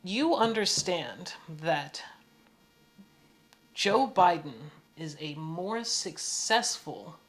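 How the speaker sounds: slow, spaced-out, measured retort; pointed explaining. Retold or imitated. Him setting the woman straight, retold pointed explaining. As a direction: spell it out with deliberate pauses.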